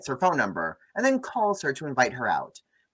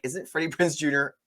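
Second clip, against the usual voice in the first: laughing disbelief; 4 semitones higher than usual. Retold or imitated. Host retelling her confused question, laughing. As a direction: quote dissolving into laughter up high. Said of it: "and I was like".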